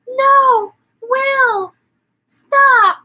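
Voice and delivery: high, loud shrieking plea; wife's panicked plea. Retold or imitated. Wife begging her husband to stop, high panicked shriek. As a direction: squeal it out like a frantic wife. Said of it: "the wife's like".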